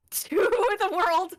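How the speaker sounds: high, slow laughing. Real, not acted. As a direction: laugh through the words. Laughing at own blunder.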